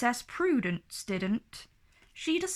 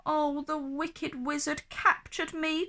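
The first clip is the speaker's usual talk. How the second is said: crying out; 5 semitones higher than usual. Acted. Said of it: "cried Prudence".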